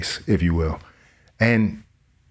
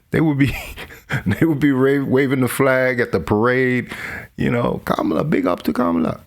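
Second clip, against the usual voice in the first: put-on jokey half-hearted Jamaican accent; badly faked Jamaican cheer for a candidate; 5 semitones higher than usual. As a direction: put on a loose Jamaican lilt. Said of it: "that's a bad accent".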